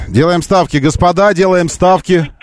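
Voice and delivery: high croupier call, placing bets; croupier announcement. Pretend. Placing bets while phone rings.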